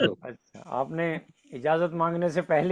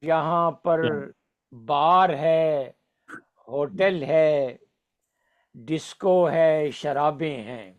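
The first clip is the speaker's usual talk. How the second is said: stately nazm recitation; much slower than usual. Acted.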